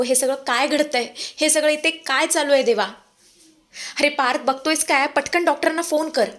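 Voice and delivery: urgent pleading that turns to ordering; panicked. Acted. Father panicking, telling son to phone doctor, mild panic. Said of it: "विक्रम इतका panic झालेला असतो".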